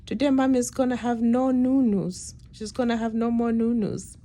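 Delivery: put-on high, excited child's voice; chirpy toddler telling her brother; little girl voice. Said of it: "Ruru looks at Josiah and she says".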